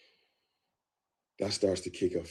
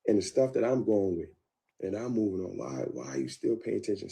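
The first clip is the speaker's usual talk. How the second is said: mild pleading; 5 semitones higher than usual. Retold or imitated. Pleading with girlfriend, retold.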